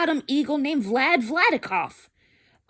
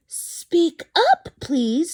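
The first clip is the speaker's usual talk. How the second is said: louder, higher call to a tiny voice; 8 semitones higher, 5 dB louder, much slower than usual. Acted. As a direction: ask the speck to speak up. Horton calling to tiny voice.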